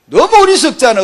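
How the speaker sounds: 너무 loud and high, then falling; exasperated exclamation. Acted. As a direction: cry out 너무 어리석잖아 in dismay. Preacher exclaims then repeats quietly.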